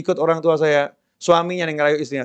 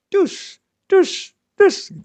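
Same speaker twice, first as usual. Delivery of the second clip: money sound effect; much slower than usual. Acted. Money suddenly arrives.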